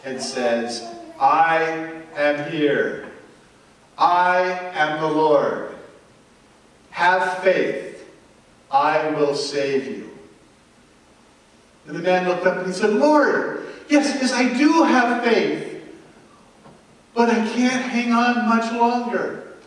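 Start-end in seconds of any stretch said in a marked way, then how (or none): 1.2-10.1 lightly voiced divine voice, slow and steady; slow, measured voice from the clouds; booming voice of God. The Lord answers the man on the cliff, a hint of booming. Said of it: "a voice booms out of the cloud". 12.9-19.5 higher, louder, straining plea; desperate plea. Acted. Man clinging to the branch answers the Lord, desperate. Man pleads while hanging on.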